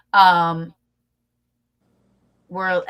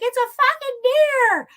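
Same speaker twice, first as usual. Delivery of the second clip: much higher, slow, drawn-out mock insistence; exasperated insistence; 6 dB louder, slower than usual. Friend at night insisting the noise is a deer, high exasperated mock insistence. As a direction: lean hard on it like she's sure.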